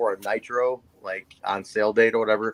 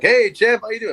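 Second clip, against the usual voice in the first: higher, louder hammed-up "Hey, champ"; mock Flair greeting; 9 semitones higher, 5 dB louder than usual. Teen fan imitating Flair's loud canned hello. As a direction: play the star brushing off a fan with a loud hello.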